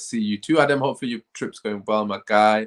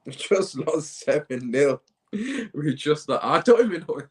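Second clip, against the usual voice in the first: stunned disbelief; 5 semitones higher, slower than usual. Real, not acted. Disbelief at the scoreline.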